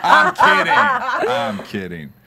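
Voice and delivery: laughing it off; giggling I'm kidding through laughter. Real, not acted. Laughing after teasing joke.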